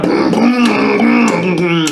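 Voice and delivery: pounding mock speaker noise; imitated blasting audio. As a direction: mimic a phone suddenly blaring. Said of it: "the audio was blasting".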